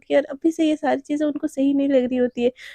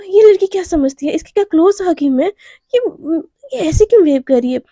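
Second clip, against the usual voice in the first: irritated rant; 3 semitones higher, 6 dB louder than usual. Acted. Naina fumes about the girl, loud and angry. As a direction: vent your annoyance hard.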